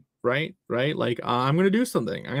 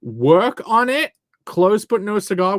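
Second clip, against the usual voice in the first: put-on British accent; 5 semitones higher, 6 dB louder than usual. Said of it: "proper British clan".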